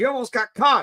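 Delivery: mock yelling. Retelling a movie scene where one character yells at another: imitating someone yelling. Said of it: "yells at him".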